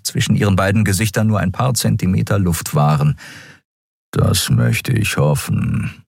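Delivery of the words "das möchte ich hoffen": low, slow rumbling grumble; deep, drawn-out growly voice; growling big cat. A narrator's reading. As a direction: rumble a warning as a huge feline. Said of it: "brummte er".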